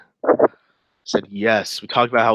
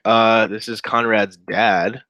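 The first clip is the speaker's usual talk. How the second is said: dad voice; 4 dB louder, much slower than usual. Retold or imitated. Voicing the dad answering.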